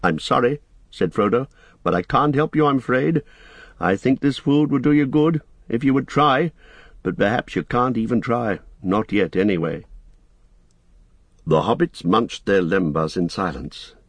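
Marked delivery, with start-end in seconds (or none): 0.0-9.9 lightly voiced hobbit, a little higher; Frodo, apologetic.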